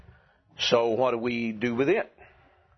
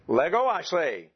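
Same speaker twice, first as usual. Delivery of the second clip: higher-pitched mnemonic catchphrase, lightly imitated; a hint of a colleague's punning style; Brother Shrigley; 5 semitones higher than usual. Teacher quoting a college colleague's memory trick to students, lightly imitated. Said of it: "in that style of his, he said".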